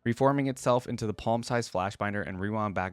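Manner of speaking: steady, even storytelling read; measured narrator voice reading the tale; story narration. Acted. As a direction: read the lore like an audiobook. Reads lore story aloud.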